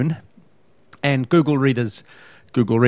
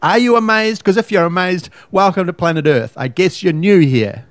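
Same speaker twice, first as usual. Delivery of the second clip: sarcastic mockery; 5 semitones higher, 4 dB louder than usual. Real, not acted. Mocking people who say amazing.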